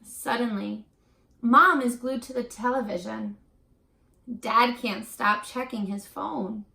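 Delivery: put-on expressive read-aloud for young pupils; reading to children. A narrator's reading. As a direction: tell the story gently to the class. Teacher reads picture book aloud.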